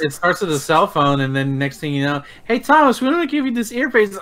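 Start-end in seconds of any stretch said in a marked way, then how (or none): 2.4-4.2 Matrix agent voice. Retold or imitated. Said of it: "Then you transform into Hugo Weaving".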